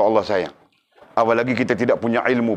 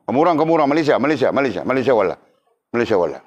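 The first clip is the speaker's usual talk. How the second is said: angry teacher scolding all; faster than usual. Retold or imitated. Preacher retelling his teacher's angry outburst at students, mock angry. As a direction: scold the whole group of Malaysians. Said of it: "Guru bila dia marah".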